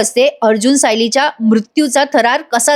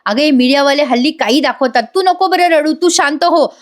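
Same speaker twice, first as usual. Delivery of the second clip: higher-pitched, gently insistent soothing; acted reassurance; 4 semitones higher than usual. Prataprao consoles weeping Kalpana, acted reassurance. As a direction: imitate a husband talking someone out of panic. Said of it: "Prataprao त्यांना समजवतात".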